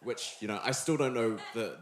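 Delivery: ordinary talk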